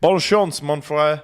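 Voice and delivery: lightly voiced Del Boy with mangled cockney French; a cheeky market-trader farewell in bad French; a hint of Del Boy's cocky cockney French. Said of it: "that was my, uh, Del Boy impression".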